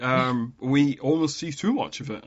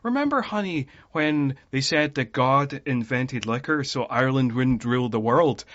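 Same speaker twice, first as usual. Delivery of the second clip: lilting Irish brogue; Irish accent. Retold or imitated. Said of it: "doing his full Irish accent".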